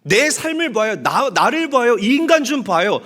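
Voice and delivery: exasperated complaint to God. Retold or imitated. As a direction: complain to God, fed up and loud. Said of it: "하는데". (하나님께 따지듯 언성을 높여 불평하는 아내)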